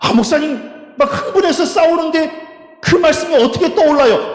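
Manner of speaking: high-pitched, worked-up objection; mock protest, pitched well up; protesting congregant. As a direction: play an exasperated churchgoer pushing back. Acts out congregant protesting to pastor.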